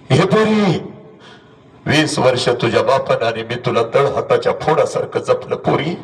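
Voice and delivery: a hint of a mother holding back tears; mother's lament. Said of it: "आणि तुझी आई तुला म्हणते". (आईचा हळवा विलाप)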